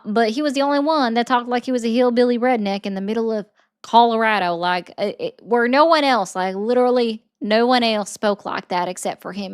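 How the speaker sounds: put-on mixed Southern accent; casual Southern redneck twang. Shown as a demonstration. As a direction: keep up a hillbilly Southern accent. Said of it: "it's a mixture of three Southern states".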